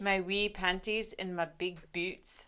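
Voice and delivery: put-on slow, playful Scottish accent; Drew McIntyre. Co-host joking about next episode, mock Scottish accent. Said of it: "in my Drew McIntyre accent".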